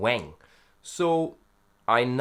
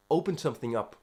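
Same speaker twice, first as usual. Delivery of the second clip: ordinary delivery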